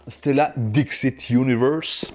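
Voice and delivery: slow, showy English accent on the title; drawn-out English pronunciation from a French speaker. Shown as a demonstration. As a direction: announce the game title in a put-on English accent. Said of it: "Vous noterez mon accent anglais".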